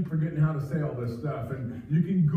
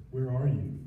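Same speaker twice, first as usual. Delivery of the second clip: gently pleading; 3 semitones lower than usual. Retold or imitated. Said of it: "He's gently pleading".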